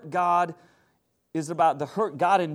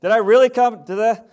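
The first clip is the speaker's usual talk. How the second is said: incredulous churchgoer; 3 semitones higher, 7 dB louder than usual. Retold or imitated. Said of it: "It's like".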